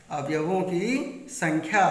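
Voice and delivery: अवयवों की संख्या said again slowly, each word weighed; slow repeat. Shown as a demonstration. Teacher repeating the heading to students, slow and emphatic. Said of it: "teacher repeats point for emphasis".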